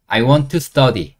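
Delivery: very slow, each word clear; slow model phrase. Shown as a demonstration. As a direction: say it slowly for learners to copy. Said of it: "공부하고 싶으니까 I want to". (천천히 또박또박)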